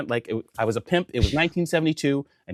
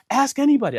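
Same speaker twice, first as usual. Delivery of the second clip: high-pitched, insistent appeal; imitated frantic appeal; 12 semitones higher, 3 dB louder than usual. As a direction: mimic the flustered accuser, pitched way up. Frantic man's take of the line.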